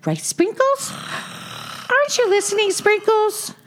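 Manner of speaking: high-pitched, eager character voice; eager young tortoise. Acted. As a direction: check brightly on a friend, keen for agreement.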